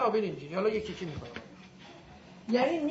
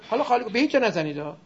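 forceful instruction; 6 dB louder, faster than usual. Shown as a demonstration. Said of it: "بکنید این کارو".

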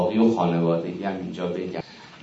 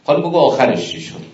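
impatient husband; 5 semitones higher, 4 dB louder than usual. Retold or imitated. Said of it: "این جمله رو زیاد از آقایونتون".

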